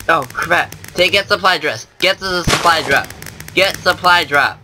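high, urgent calls. Real, not acted. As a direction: hurry toward the supply drop. Urgent order while under attack.

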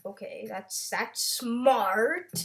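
drawn-out sarcastic praise; feigned admiration, stretched on the last word. Real, not acted. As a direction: say it with a hint of sarcasm. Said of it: "hint of sarcasm in my voice".

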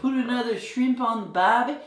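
dodgy Australian impression; Australian accent. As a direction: do a clichéd, bad Australian accent. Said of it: "as Dave's Australian accent".

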